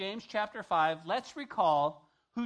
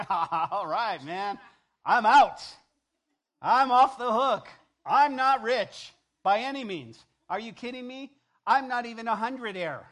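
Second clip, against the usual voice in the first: loud laughing relief, higher; laughing, relieved shout; 5 semitones higher, 12 dB louder than usual. Retold or imitated. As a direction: shout it out, off the hook. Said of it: "many of you in this room are thinking".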